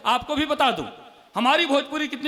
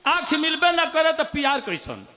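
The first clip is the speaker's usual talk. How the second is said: poem line; 3 semitones higher than usual. Acted. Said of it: "सुनिएगा".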